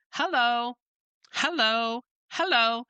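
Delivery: bright, friendly hellos tossed to passersby; cheerful greeting demo. Shown as a demonstration. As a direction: greet each customer with a sunny hello. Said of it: "and saying hello".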